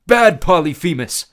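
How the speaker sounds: put-on high, loud, slow childlike voice; simple gentle giant. A narrator's reading. Tyson scolding the fallen Cyclops, childlike. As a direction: scold like a big kid.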